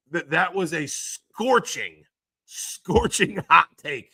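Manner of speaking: drawn out slowly, laughing on hot take. Real, not acted. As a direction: savor it slowly through laughter. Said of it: "without crying laughing".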